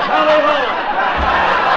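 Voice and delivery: high, drawn-out dog-sled cry; loud hammed-up rallying holler; yell. Father telling kids his Yukon sled tale, yelling. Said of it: "I cracked the whip and yelled".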